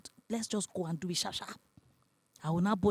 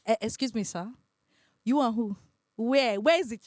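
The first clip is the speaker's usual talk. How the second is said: louder, rising disbelief; shocked questioning; 4 semitones higher, 6 dB louder than usual. Retold or imitated. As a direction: demand answers in shock.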